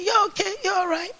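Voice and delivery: soft gentle whisper of comfort; soft reassurance. Shown as a demonstration. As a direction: quietly soothe a sleeping neighbour. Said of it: "I don't say too loud".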